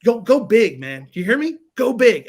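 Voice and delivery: a hint of an army leader fired up; pep talk. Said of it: "one of those speeches".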